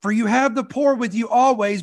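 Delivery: measured, reverent Bible reading; scripture reading. Acted. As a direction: read the passage with solemn weight. Reads scripture aloud.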